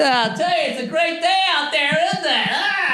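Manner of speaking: hammed-up happy small talk, pitched high; chatty customer. Comic mocking a chatty customer holding up the line, high and breezy. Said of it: "what do they do".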